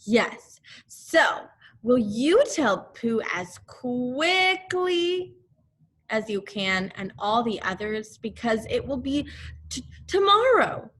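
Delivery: put-on boy pressing Owl to hurry; eager boy. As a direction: stumble over the word in excitement. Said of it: "Christopher Robin urging Owl".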